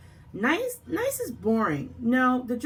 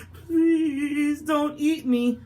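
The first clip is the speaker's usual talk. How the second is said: cowardly knight; much slower than usual. Acted. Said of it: "a cowardly knight".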